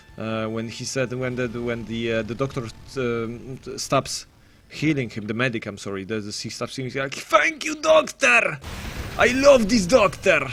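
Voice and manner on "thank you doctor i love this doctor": put-on thick Russian accent, very high and loud. Recalling a game character praising his healer: imitating the Heavy's thick Russian accent. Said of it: "With this thick Russian accent".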